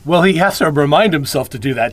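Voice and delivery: normal talking voice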